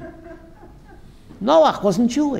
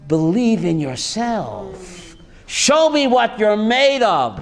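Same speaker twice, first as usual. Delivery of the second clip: encouraging God; slower than usual. Retold or imitated. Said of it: "God says".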